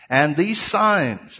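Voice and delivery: drawn-out, weighty signs; slow emphasis on signs. Shown as a demonstration. Preacher slowing down so the congregation catches signs. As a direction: lean hard on the word signs. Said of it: "everybody say signs".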